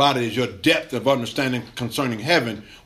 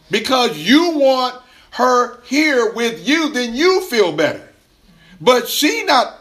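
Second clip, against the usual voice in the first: higher, louder, slow preaching build; fervent preaching; 9 semitones higher, 5 dB louder, slower than usual. Acted. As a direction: drive it home like a preacher at the pulpit. Preaching at full force.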